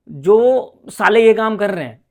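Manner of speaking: slow and firm, leaning on ये; a real angry jab at the culprits; angry slow swear. Real, not acted. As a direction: spit out साले slowly, each word weighed. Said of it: "sorry यार, मैं ऐसा बोल रहा हूँ".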